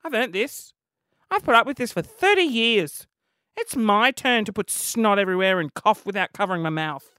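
loud, defiant and unapologetic; defiant rant. Retold or imitated. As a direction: claim it like a hard-won right. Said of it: "I was like".

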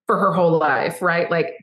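usual speaking voice

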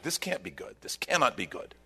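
softly muttered dread; the brothers quietly fearing the worst; worried mutter. Retold or imitated. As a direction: say it under your breath, uneasy. Brothers' worried reaction voiced.

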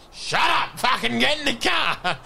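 high-pitched exasperated parent shout; mock angry dad. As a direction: play a dad ordering the kid about. Voicing a dad ordering the child.

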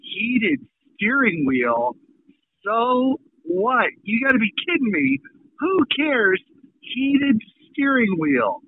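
slow, drawn-out incredulous repeat; scornful disbelief. Retold or imitated. Buyer scoffing at a car salesman's pitch, incredulous. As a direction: stretch the feature's name as if absurd.

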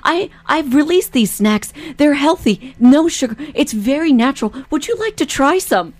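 imitating a very polite street salesman; lightly voiced, unintrusive product pitch. Co-host mimicking a founder offering snacks to strangers, very polite. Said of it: "That's how he talks".

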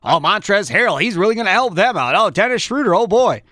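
lilting, up-and-down mock excitement; imitated offseason buzz in a singsong; mock hype. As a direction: gush like hyped-up fans, tongue in cheek. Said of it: "We all said that".

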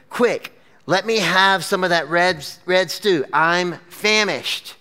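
hungry man's emphatic demand, last word drawn out; dramatic. Acted. Hungry Esau demanding stew from his brother, dramatic. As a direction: demand it with mild melodrama. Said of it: "this is very dramatic".

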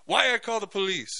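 quoting the owner. Retold or imitated. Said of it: "The guy looks at me and he goes".

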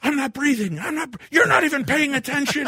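very high, panicked whine; mock crying yell. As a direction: wail at your wife in hammed-up panic. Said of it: "I'm crying and I'm yelling at her".

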